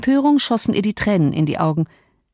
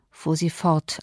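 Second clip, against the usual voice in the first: ordinary delivery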